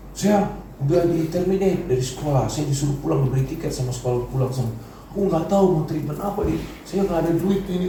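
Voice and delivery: high, helpless retold lament; imitated tearful plea. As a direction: plead as if retelling someone's tearful panic. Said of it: "nangis-nangis dia".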